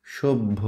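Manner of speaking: "সভ্য" as shob-bho; b before bh. Shown as a demonstration. Teacher proves the b slips in, "সভ্য" as shob-bho. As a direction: land on a b, then release bh in "সভ্য". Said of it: "এই যে দেখো বটা চলে আসছে".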